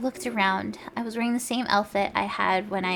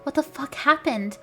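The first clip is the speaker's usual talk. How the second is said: high shocked question; 6 semitones higher, 3 dB louder than usual. A narrator's reading. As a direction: blurt it in disbelief.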